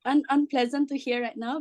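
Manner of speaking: hoarse, worn-out voice; losing voice. Real, not acted. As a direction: speak through a voice that's going. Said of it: "I'm losing my voice".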